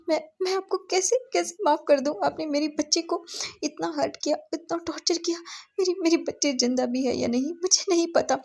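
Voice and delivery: high, tearful reproach; a wounded mother accusing her husband; anguished mother. Acted. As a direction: throw the hurt back at him, voice up high.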